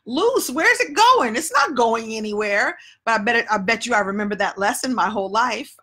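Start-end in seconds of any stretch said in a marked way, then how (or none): 0.1-2.8 high incredulous squeak, settling down; baffled girl. Retold or imitated. Retelling her confused reply to the teacher, mock bewildered. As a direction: play up her own childhood confusion. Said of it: "And I was like".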